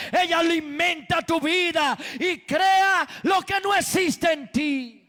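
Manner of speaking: forceful, driving sermon delivery; impassioned preaching. Real, not acted. Preacher teaching the congregation that only God creates, impassioned preaching. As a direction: preach it hard, leaning on key words.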